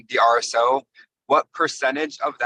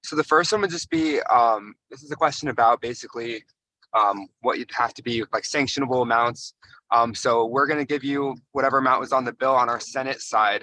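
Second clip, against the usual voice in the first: muffled, hard to make out. Real, not acted. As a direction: speak as if through thick cloth. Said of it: "I sound a little muffled".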